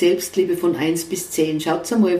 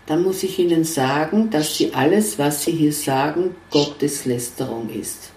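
calm; 4 semitones lower than usual. Retold or imitated. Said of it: "ganz ruhig angeschaut".

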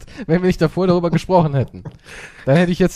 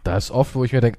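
normal talking voice

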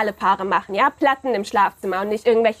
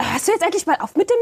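angry; 5 semitones higher than usual. Acted. Couple quarrel escalates.

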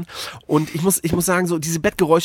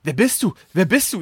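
verwirrt aufgeregt. Retold or imitated. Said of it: "so ganz aufgeregt".

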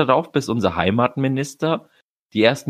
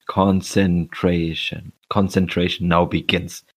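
mock announcer; 3 semitones lower than usual. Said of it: "Konzentrier dich".

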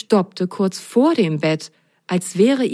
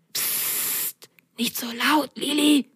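sharp shush, then soft higher voice; hushed warning; 7 semitones higher, 6 dB quieter, slower than usual. A narrator's reading. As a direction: shush a friend urgently. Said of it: "warnte Ron".

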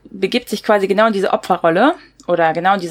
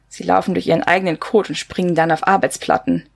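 subdued novel reading with lightly acted dialogue; restrained book-reading voice, quotes only mildly acted; story narration; 3 semitones lower than usual. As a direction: read the couple's bickering as the narrator. Reads a dialogue excerpt aloud.

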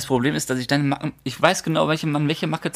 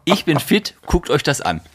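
mock provocative boasting; 3 dB louder, slower than usual. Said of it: "dieses richtig provokante".

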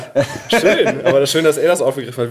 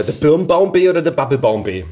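mock Saxon saying. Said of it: "hab ich mir diesen Spruch gemerkt".

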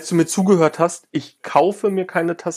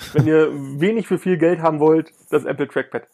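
stifled giggles. Real, not acted. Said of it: "hör auf zu lachen".

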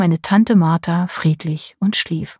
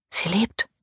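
softer, hushed relief; whispered; 6 dB quieter than usual. A narrator's reading. Niece quietly tells Marianne her aunt lives, hushed. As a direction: breathe it out softly, relieved. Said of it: "flüsterte ich".

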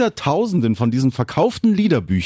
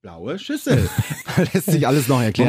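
laughing through the words; amused laughing. Real, not acted. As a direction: say it while chuckling. Belustigtes Nachsprechen des Spielzeugs. (lachend, belustigt)

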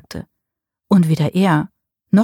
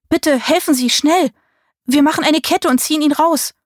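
urgent pleading; 9 semitones higher than usual. A narrator's reading. Marie begs for help.

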